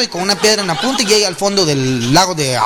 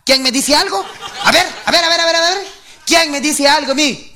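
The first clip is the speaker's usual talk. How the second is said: mock macho bluster; 6 semitones higher than usual. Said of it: "pateé la puerta".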